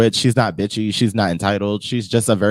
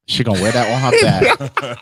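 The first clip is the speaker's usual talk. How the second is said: laughing; 2 semitones higher, slower than usual. Real, not acted. Joking about hometown pride.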